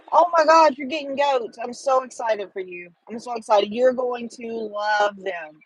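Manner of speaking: thrilled squeal of real delight at the news; excited. Real, not acted. To a viewer who's getting goats, genuinely excited.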